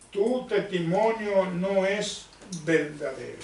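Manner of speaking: measured scripture reading, slowed down; lectura bíblica. Acted. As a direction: read the verse out slowly with pauses between phrases. Lee el versículo trece. (lectura pausada del versículo)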